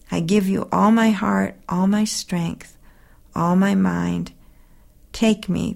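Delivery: earnest, devoted prayer to Jesus; heartfelt prayer. Acted. Reading her own prayer to the listeners, earnest and devoted.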